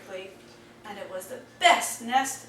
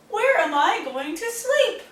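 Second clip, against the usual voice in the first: upset wail; 8 semitones higher, 5 dB louder than usual. A narrator's reading. Upset hedgehog wails.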